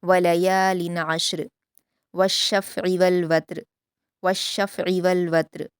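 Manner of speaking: slow, melodic Quranic recitation; measured Quran recitation; tajweed recitation. Shown as a demonstration. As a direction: recite it slowly and carefully as a model for students. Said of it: "आइन के मखरज को सही से अदा करेंगे".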